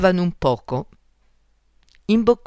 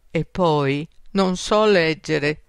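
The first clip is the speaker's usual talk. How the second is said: slower, mildly sheepish confession; a touch of embarrassment; embarrassed admission; slower than usual. Acted. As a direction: own up hesitantly. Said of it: "ammise con un certo imbarazzo".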